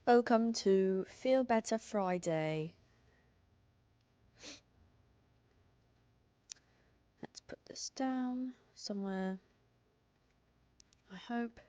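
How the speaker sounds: lightly put-on British streamer voice; British accent, done for fun; fake British accent. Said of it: "I was British for fun".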